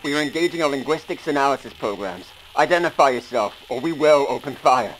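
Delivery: over the speakers. Acted. Hail played over ship speakers.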